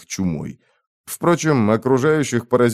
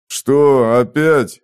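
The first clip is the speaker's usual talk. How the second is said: dejected; 3 semitones higher, 5 dB louder, much slower than usual. Acted. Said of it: "с унынием в голосе откликнулся тот".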